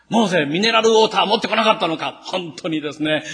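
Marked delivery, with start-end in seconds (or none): 0.1-2.2 mock indignant complaint. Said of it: "憤って".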